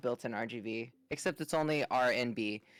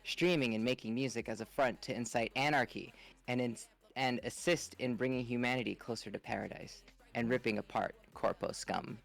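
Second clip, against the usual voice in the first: narrator voice. Acted. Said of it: "let me get my narrator voice going".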